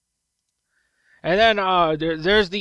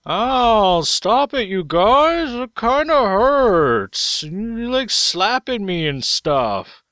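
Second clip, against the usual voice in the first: Baron whining; 3 semitones higher, much slower than usual. Pretend. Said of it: "Baron voiced pleading".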